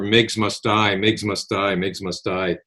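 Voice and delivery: low, menacing chant of a threat; quoting a caller's nasty threat, lightly voiced. Man recounting a phone threat, mild nasty voice. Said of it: "in a real nasty voice".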